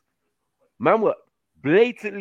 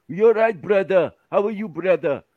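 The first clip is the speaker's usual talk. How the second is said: lightly voiced friendly shopkeeper, a touch higher; Kurdish shopkeeper voice; 5 semitones higher, 4 dB louder than usual. Shopkeeper greeting a regular customer, lightly imitated. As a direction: greet him like a chummy corner-shop man. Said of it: "That's how they talk".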